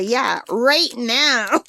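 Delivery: slow, drawn-out right now; parrot demanding. Retold or imitated. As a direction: stretch it out like an impatient parrot. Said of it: "And she'll say".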